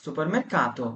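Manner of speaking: "vieni al supermercato" stretched out slowly; slow teaching demo. Shown as a demonstration. Teacher modelling the singular form, slow and deliberate. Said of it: "সুপারমার্কেটে আসো".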